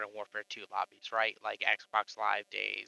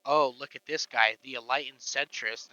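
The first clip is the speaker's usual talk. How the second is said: sarcastic mockery; 5 dB louder than usual. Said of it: "they're like".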